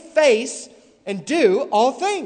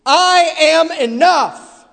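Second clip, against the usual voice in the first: mocking quote; 6 semitones higher, 8 dB louder than usual. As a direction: ham up his claim with scorn. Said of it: "he says".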